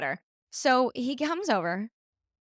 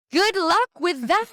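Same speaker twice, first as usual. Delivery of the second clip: mock villain, higher and louder, slow; 7 semitones higher, 7 dB louder than usual. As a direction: gloat like a smug villain. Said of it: "He sounds like a villain".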